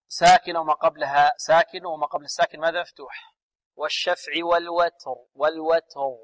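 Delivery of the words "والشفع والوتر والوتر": والوتر ending on a full, voiced r; voiced final ra. Shown as a demonstration. Teacher models the correct way, voiced r ending والوتر. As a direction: keep the voice sounding in the r of والوتر. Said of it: "لا نقول والوتر".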